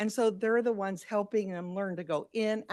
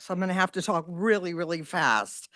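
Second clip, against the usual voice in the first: rushed, quick delivery; racing the two-minute limit; talking fast; 5 semitones lower than usual. Real, not acted. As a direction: hurry through it against the clock. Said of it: "he told me I only had two minutes".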